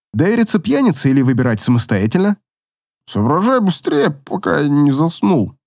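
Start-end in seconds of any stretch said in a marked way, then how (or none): 3.1-5.6 put-on grumbling drunk. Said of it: "буркнул он".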